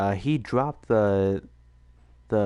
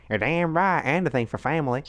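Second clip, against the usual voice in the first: put-on southern accent; 3 semitones higher than usual. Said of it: "Alabama southern".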